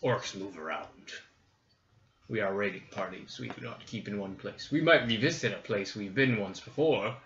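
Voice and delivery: lightly voiced gruff orc. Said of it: "Orc voice".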